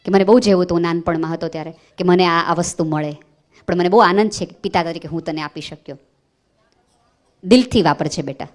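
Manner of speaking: low, gentle words from a father; lovingly. Shown as a demonstration. Father giving his child a gift, speaking lovingly. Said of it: "બહુ પ્રેમથી કયો".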